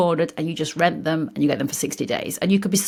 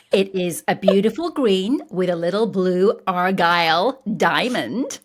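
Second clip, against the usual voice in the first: slipping into a mock American accent; lightly put-on American pronunciation. Shown as a demonstration. Describing a new cardigan, playful American accent. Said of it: "why I did the American accent now".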